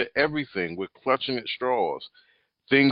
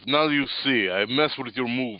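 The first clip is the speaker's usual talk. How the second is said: lightly voiced Russian accent; 3 semitones higher than usual. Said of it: "Listen to Voskov".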